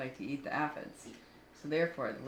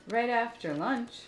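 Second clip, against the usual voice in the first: slow snake line; 6 semitones higher, 4 dB louder, slower than usual. Acted. Snake adds a condition.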